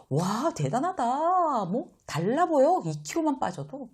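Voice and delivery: amazed praise. Shown as a demonstration. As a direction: stretch out the amazement, wide-eyed. 감탄하며 축하해 주는 시범. (느리고 높게 감탄하며)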